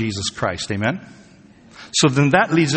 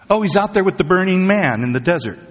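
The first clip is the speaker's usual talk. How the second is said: raised pitch, eager false report; mock excited rumor; 6 semitones higher than usual. Preacher imitates somebody reporting Jesus in the desert, mock excited. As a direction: pitch it up like a gullible tipster. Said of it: "If you hear somebody saying".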